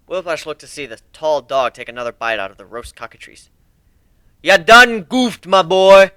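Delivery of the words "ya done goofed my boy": high, loud, slow gleeful taunt; mocking young colt. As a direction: rub it in with glee. Whiplash mocking Growl.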